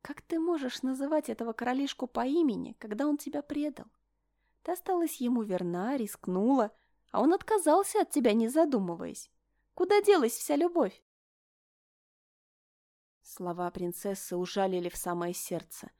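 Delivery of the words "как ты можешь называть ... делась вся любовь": mocking taunt. Princess taunts heroine.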